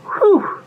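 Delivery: high-pitched exhale of relief; relieved whew. Acted. Story character relieved the danger has gone, high whew.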